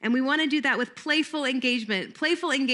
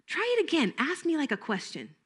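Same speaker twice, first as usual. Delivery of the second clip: higher, soft coaxing; playful prompting; 5 semitones higher, 4 dB quieter than usual. Shown as a demonstration. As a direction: coax the child into a redo. Teacher prompts redo.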